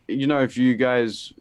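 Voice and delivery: stumbling, stuck on words; tripping over the words, restarting; stuttering. Real, not acted. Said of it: "I'm stuttering".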